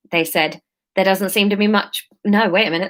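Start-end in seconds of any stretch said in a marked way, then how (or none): 1.0-2.1 South London attempt slipping into Australian; a faint Australian lilt by mistake; unintended Australian accent. Leader answering the topsider, accent drifting Australian. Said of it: "that's coming out Australian".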